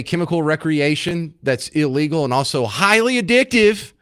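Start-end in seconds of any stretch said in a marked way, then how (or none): 3.2-3.9 addictive punched high and loud; punchline emphasis. Real, not acted. Host telling listeners about his old roommates, punched. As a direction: hit addictive as the wry payoff.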